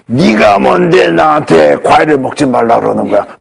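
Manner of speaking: slow, strange growling monster voice. Retold or imitated. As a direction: turn into a monster mid-call. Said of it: "목소리가 변해요. 괴물 목소리로". (괴물 목소리)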